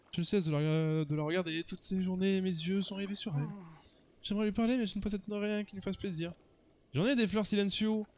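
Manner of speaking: pining romantic character voice; lovestruck suitor. Acted. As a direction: confess a helpless crush.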